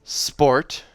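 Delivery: loud, high offended retort; indignant. A narrator's reading. Kel stung by Wraith's question, indignant. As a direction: throw the word back at him.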